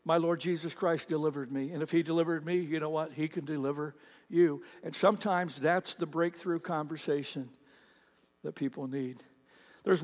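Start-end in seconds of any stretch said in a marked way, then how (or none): 0.1-4.6 quiet testimony. Retold or imitated. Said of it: "you're gonna say".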